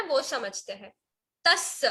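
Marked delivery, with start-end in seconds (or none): 1.4-1.8 तस् with a held double s; pronunciation demo. Shown as a demonstration. Teacher showing a class how to pronounce, careful demo. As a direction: say तस् carefully, holding the closing s. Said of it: "कैसे pronounce करना है".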